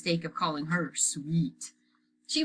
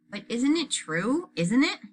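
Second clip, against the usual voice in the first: obnoxious voice; 7 semitones higher, 4 dB louder than usual. A narrator's reading. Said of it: "in her most obnoxious voice".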